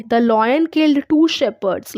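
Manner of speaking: very slow, each word spaced out; slow dictation. Shown as a demonstration. Teacher dictating an English sentence to her class, very slowly. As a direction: read it out slowly for students to follow.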